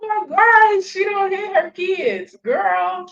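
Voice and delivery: high-pitched disbelief; shocked disbelief. Real, not acted. Disbelief at her lie.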